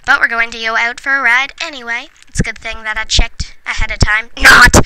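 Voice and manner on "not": loud sarcastic punchline; sarcastic not. Real, not acted. Mocking her own lack of planning, loud sarcastic Not. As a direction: snap out the joke reversal.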